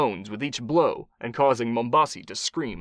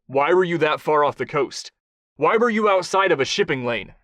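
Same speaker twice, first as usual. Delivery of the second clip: stern interrogation; 4 semitones higher, 5 dB louder than usual. Acted. Kai interrogates the captive.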